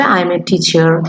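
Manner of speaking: very slow model answer; slow demo. Shown as a demonstration. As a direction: drag it out so students copy. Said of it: "কিভাবে বলবে?".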